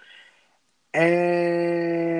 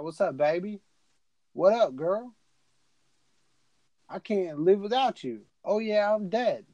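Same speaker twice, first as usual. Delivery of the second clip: higher, cocky flirty crooning; smooth ghost husband; 6 semitones higher than usual. Retold or imitated. Imitating the ghost husband flirting with his wife, higher and cocky.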